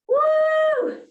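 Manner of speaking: high, loud joyful whoop; excited whoop. Real, not acted. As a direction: let out a big whoop of relief. Release after hard set.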